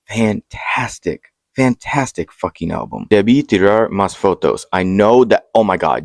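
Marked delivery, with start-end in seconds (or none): 3.1-4.6 attempted Spanish pronunciation. Real, not acted. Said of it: "I know that pronunciation was terrible".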